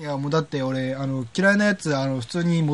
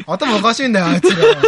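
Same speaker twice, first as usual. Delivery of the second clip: heated rant; 6 semitones higher, 6 dB louder than usual. Pretend. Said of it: "ヒートアップする".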